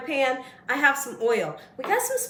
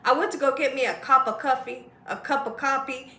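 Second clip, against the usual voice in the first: garbled imitation. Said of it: "he could not get it right".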